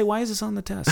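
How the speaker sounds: mock complaint. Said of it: "you might say".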